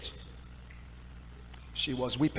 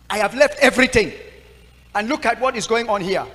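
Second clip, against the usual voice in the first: anguished cry to God; 4 semitones higher, 6 dB louder than usual. Retold or imitated. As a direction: complain to God, building to a shout. Crying out to God in despair.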